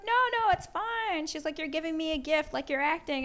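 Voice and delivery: imitating Tina Fey. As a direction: lightly play a gracious star.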